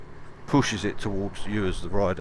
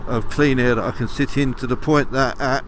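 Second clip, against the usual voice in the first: inside a helmet. Real, not acted. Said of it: "You can probably hear not a lot of wind noise on my helmet".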